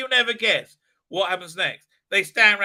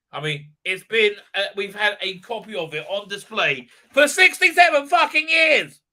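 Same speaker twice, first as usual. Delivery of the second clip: incredulous rant; 4 semitones higher, 6 dB louder than usual. Real, not acted. Ranting about the tower.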